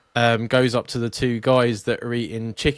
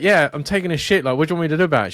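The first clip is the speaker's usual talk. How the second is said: exasperated retort; 5 semitones higher, 5 dB louder, much faster than usual. Retold or imitated. Retold quarrel through bathroom window.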